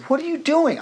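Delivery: sharp, high-pitched upset question; upset challenge. Retold or imitated. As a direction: demand to know, mildly riled. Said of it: "I was upset".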